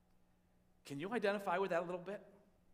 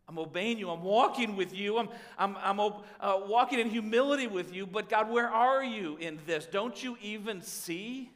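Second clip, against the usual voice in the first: urgent pleading prayer; 2 semitones higher, 5 dB louder than usual. Acted. Voiced prayer of a believer.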